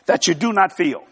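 measured delivery, set off by a pause; slow, deliberate. Shown as a demonstration. Preacher making sure listeners understand, slow and deliberate. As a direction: finish the point slowly and carefully. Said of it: "I'm gonna say it slow".

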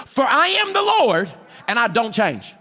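preacher's booming declaration; preaching. Acted. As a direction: proclaim the Lord's words from the pulpit. Preaching scripture quote.

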